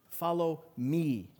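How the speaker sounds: slow, "me" set apart and drawn out; measured, weighty "me"; stress on "me". Shown as a demonstration. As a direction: pause slightly, then a long falling "me". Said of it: "we're gonna start with me".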